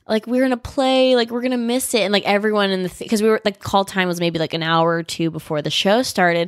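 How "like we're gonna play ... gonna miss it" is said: higher-pitched, mildly whiny pleading; imitating upset pleading; mock crying plea. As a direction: retell a teary protest. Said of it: "crying, like".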